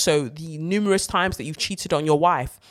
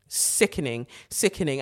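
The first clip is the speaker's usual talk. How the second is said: disgusted; 3 semitones lower, 5 dB quieter than usual. Real, not acted. Disgusted verdict.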